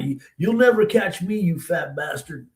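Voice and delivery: high-pitched retold jeer; mock holler, starting high and dropping; hollered taunt. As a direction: taunt a pursuer over your shoulder. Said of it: "I hollered out".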